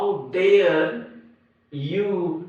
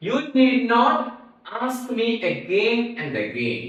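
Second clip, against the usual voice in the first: irritated reply; 6 semitones higher than usual. Shown as a demonstration. Teacher acts out irritated reply.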